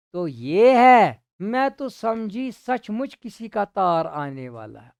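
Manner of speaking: lightly voiced wife, drawn-out start; a hint of the surprised wife; wife's voice. Teacher voicing the wife realising it's a lottery letter.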